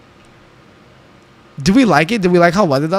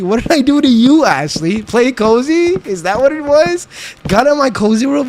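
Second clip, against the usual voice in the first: mock outrage; 8 semitones higher, 4 dB louder than usual. Mock outrage at chat members.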